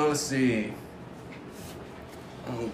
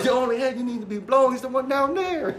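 laughing retold quip; 11 semitones higher than usual.

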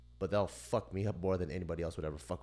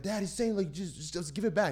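high-pitched imitation of a kid begging dad; pleading child; 10 semitones higher, 3 dB louder than usual. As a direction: plead urgently in a small high voice.

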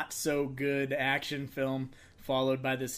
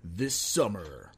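movie trailer voice; 3 semitones lower, slower than usual. Pretend. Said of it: "Time for a trailer voice".

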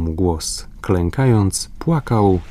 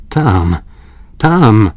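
calling out; 3 semitones higher, 6 dB louder than usual. A narrator's reading. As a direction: call out, pointing into the sky. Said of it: "zawołał". (głośne wołanie)

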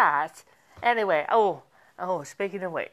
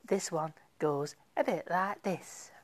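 whisper; 3 semitones lower, 7 dB quieter than usual. Real, not acted. Whispers song intro.

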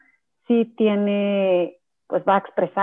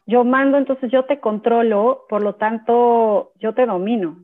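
louder, commanding mother voicing control; mock bossy mother; 3 semitones higher, 6 dB louder than usual. Mother to her child, mock commanding and louder. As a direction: play the domineering mom laying down the law.

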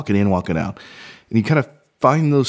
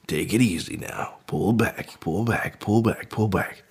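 soft, easing repetition; calming himself down; 5 dB quieter, slower than usual. Pretend. Man coaxing his racing mind to slow down, soothing. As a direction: talk yourself down gently.

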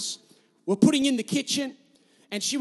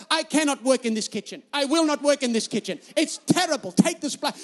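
put-on emphatic Bulgarian-accented refusal; imitated Bulgarian tirade. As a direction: protest as a mock Bulgarian-accented wife. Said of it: "in her little Bulgarian accent".

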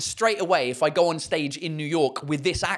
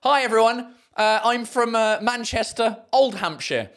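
louder, higher stage voice; stand-up opener; 5 semitones higher, 3 dB louder than usual. Retold or imitated. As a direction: deliver the joke to the room. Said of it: "my first joke ... was".

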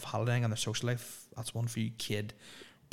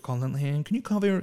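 higher, mock American request; a hint of a hammed American fan; bad American accent; 3 semitones higher, 4 dB louder than usual. Fan addressing Colin, in a bad American accent. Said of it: "really bad American accents".

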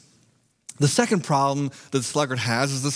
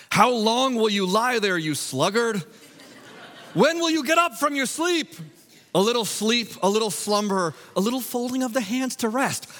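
higher, louder proclaimed reading; loud alarm-clock verse; 7 semitones higher than usual. Shown as a demonstration. Preacher reading the verse as a teen's alarm, loud. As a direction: blast it like a morning alarm. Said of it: "my voice saying this very loudly".

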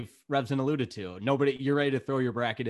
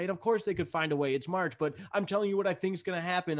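whiny; 5 semitones higher, faster than usual. Real, not acted. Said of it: "that sounded really whiny".

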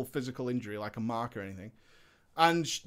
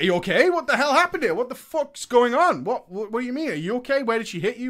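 alarmed, raised questions on the phone; shocked husband firing questions; 6 semitones higher, 6 dB louder than usual. Retold or imitated. Shocked husband hearing wife was hit, alarmed. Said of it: "I was shocked".

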